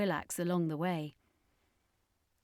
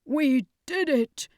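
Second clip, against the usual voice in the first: slow, higher, louder relief; relieved triumph; 8 semitones higher, 7 dB louder, slower than usual. Acted. Circus master to the survivors, relieved triumph. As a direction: breathe out the win.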